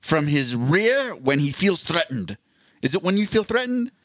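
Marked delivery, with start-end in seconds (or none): 0.0-2.4 slow, lightly voiced nature show host; wildlife presenter. Mock nature host explaining Armando's defense, lightly voiced wildlife presenter. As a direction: draw it out like an animal documentary narrator. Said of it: "He's like, 'cause, 'cause there's always some adjective".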